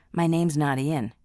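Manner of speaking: wronged man unmasking himself, harshly. Acted. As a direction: cut him off coldly. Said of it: "Jamie said harshly".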